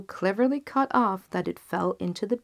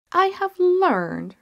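much higher, louder, slow accusation; accusing king; 12 semitones higher, 9 dB louder, slower than usual. Acted. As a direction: pronounce it from the throne.

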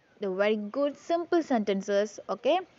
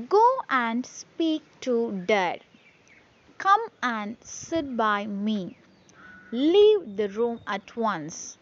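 slow model reading, key words like "Go", "speak", "Dad" stressed; stressed syllables; slower than usual. Shown as a demonstration. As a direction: read slowly, punching content words like "Leave" and "once". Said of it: "We have to stress that".

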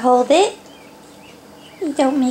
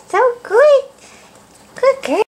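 excited praise; 8 semitones higher than usual. Real, not acted. Mom cheers her baby for using the potty, high and excited.

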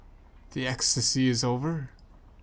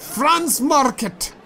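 proud announcement; 10 semitones higher, 3 dB louder, much slower than usual. Acted. Proudly announcing own name.

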